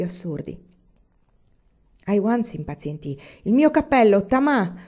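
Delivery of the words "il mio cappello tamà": louder, higher impatient shout; husband shouting impatiently for his hat. Acted. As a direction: bark the demand across the house. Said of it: "gridò".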